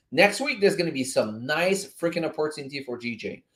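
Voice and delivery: normal talking voice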